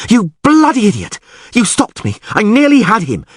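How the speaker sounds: high, shrill-edged rage; furious yell. A narrator's reading. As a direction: scream it while clawing at him. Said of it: "Yennefer yelled".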